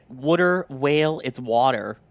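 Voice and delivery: "water" as "wudda", then "it's water" said as "wawter"; mock Boston "wudda" for "water"; a light Boston accent on "water". Shown as a demonstration. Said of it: "hurts my jaw to say it like that".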